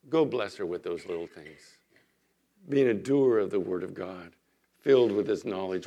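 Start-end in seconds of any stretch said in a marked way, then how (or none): 0.1-1.8 lightly voiced Spirit, lower. The Spirit prompting him to bless her, lightly voiced. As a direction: answer with a hint of a calm, low inner voice. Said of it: "But the Spirit says".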